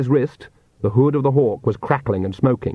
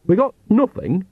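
Igor voice; 4 semitones higher than usual. Acted. Igor answers Nanny in pieces.

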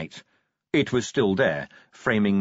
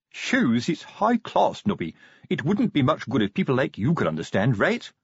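pompous sergeant voice; 3 semitones higher than usual. Acted. Colon voiced in read story.

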